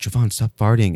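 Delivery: put-on whisper. Retelling whispering in a classmate's ear during quiet class: imitating own whisper. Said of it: "whispered in his ear".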